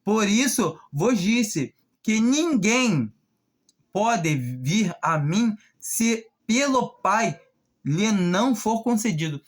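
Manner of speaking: slow, weighty reading of the verses; solemn scripture reading. Acted. Preacher reads John to the congregation, solemn and measured. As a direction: read it like holy words, letting each phrase land.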